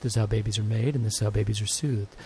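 soft, low, hushed soothing; soothing baby voice. Shown as a demonstration. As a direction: murmur it to a sleeping baby. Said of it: "my soothing baby voice".

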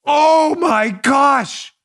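very slow, drawn-out "Oh my gosh"; mock shock. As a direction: ham up the horror like a movie. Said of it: "real dramatic".

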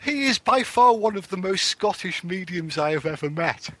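parroting the host's line back; mocking imitation of host. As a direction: repeat his words in a mock voice. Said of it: "Ron's American, you know, it's like".

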